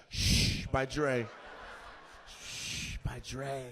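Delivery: long loud "shh" in place of a word; shushing. Acted. Comic riffing on a man's headphones, shushing. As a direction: draw out the shush, then the name slowly. Joke on headphones brand name.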